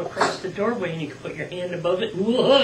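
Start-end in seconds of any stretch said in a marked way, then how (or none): 2.2-2.6 puppet voice. Shown as a demonstration. Puppet exclamation over curtain.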